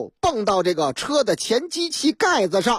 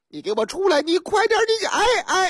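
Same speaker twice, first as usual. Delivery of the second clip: impatient demand, rising higher; impatient calling out; 9 semitones higher than usual. Acted. Husband at the car door, impatiently yelling for his wife to come out. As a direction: bark at her to get out, pitch rising.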